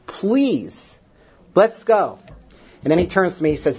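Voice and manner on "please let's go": emphatic plea climbing high on the last words; retold begging. Grandfather recalling how he begged his parents, pleading. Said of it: "I begged".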